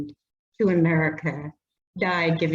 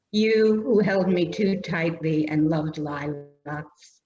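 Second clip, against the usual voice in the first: measured, slowed poem reading voice; poetry reading. Acted. Poet reading her poem to the audience, measured and unhurried. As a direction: let each image land gently. Reads childhood memory poem.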